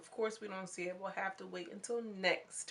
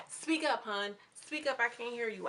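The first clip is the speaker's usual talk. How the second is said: mock taunting call; 3 semitones higher, 4 dB louder than usual. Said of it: "New York is like".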